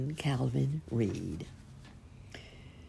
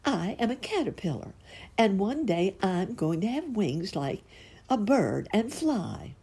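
caterpillar voice; 7 semitones higher than usual. A narrator's reading. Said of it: "replied Perky".

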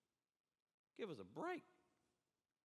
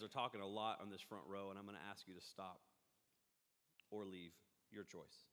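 quiet warning; 8 semitones lower, 10 dB quieter than usual. Real, not acted. Scolds chatty front row.

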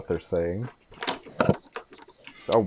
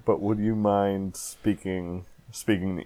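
slow, over-clear speech for the deaf; slow and loud; 5 dB quieter than usual. Acted. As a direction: spell it out slowly. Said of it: "I know that you might be deaf".

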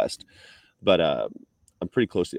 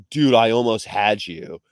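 put-on slow Californian dude accent; Paul Walker; 2 semitones higher, 5 dB louder than usual. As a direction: imitate a laid-back California accent, drawn out. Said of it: "Paul Walker's the most American accent".

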